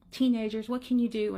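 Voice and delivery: lightly acted exasperated sigh of a mother. Mother lamenting her son to a stranger, mildly exasperated. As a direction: imitate a fed-up mom.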